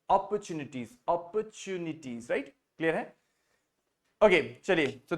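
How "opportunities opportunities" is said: British "opportunities" without a strong r; softly, slowly say "opportunities" the British way; British style. Shown as a demonstration. Teacher recommends the simpler style, British pronunciation. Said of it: "simple बोलना है British style में".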